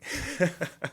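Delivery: brief amused laugh; short chuckle. Real, not acted. Trader joking about being unemotional, short chuckle. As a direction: chuckle briefly at your own remark.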